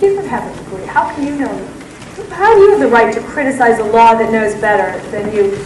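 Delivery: belittling prosecutor. Retold or imitated. Prosecutor belittling the butcher at trial, lightly hectoring. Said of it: "So the prosecutor said".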